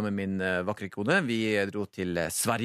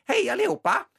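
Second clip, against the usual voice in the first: put-on much higher, louder squeaky girl greeting; little girl greeting; 4 dB louder than usual. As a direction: overdo the tiny teen girl's hello. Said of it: "bittelita, sikkert seksten år". (mye lysere og kraftigere jentehilsen)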